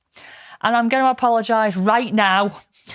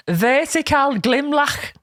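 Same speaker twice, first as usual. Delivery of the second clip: slow, higher, careful German-style reading; German-style pronunciation; 5 semitones higher, slower than usual. Shown as a demonstration. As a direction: sound it out as if German. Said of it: "pronouncing them as if they're German".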